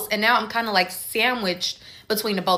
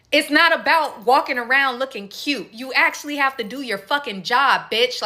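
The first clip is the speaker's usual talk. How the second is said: retold cursing out; 5 semitones higher than usual. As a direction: imitate the rude customer snapping. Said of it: "she starts cursing me out".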